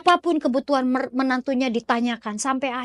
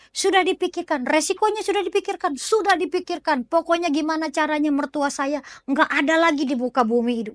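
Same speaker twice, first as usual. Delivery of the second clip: higher-pitched, emphatic insistence of an exasperated daughter-in-law; fed-up, insistent; 4 semitones higher than usual. Acted. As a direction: act out being fed up and determined. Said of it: "Saking puncak membaranya tuh si menantu kesel".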